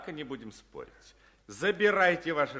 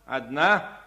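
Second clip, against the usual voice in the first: loud slow appraiser call; 5 semitones higher, 8 dB louder, much slower than usual. Acted. Appraiser calls out items.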